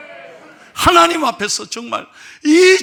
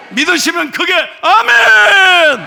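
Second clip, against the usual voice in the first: high, loud, drawn-out amen call; shouted preacher's cry; 8 semitones higher, 7 dB louder, slower than usual. Real, not acted. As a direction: rouse the crowd with it.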